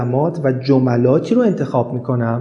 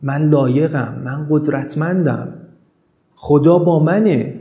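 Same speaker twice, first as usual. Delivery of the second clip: calm affirmations; slower than usual. Shown as a demonstration. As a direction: lay each line down slowly and gently.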